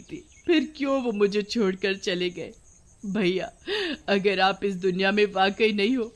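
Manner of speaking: plaintive appeal, rising in force; mild anguished lament. Acted. Dead sister cries out to her missing brother, mildly anguished. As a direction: lament with hurt, pushing harder as it goes.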